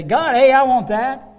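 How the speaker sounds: put-on high, loud childish grabbing; mock petulant demand; whiny demand. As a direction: whine it like a greedy child. Believers demanding promises from God.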